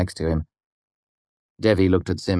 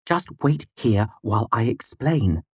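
higher, pleading female voice; pleading young woman; 6 semitones higher than usual. A narrator's reading. Mola asks someone to wait while she explains, pleading. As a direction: urge them to hold on.

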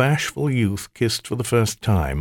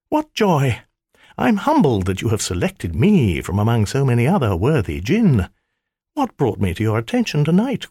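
much higher, eager flattering voice; fawning spirit; 4 semitones higher than usual. Acted. Spirit flattering the old magician after a scorching, fawning. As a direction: grovel and gush to the master. High maiden voice.

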